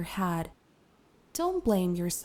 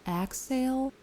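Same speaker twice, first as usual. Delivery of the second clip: guided meditation; 5 dB quieter than usual. Acted. Meditation teacher settling the listener into a comfortable seat, calm guided meditation. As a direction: ease them into stillness with long pauses.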